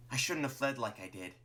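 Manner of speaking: scolding through a scowl. Acted. Martlet confronts Clover after fleeing, scowling. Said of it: "she says with a scowl".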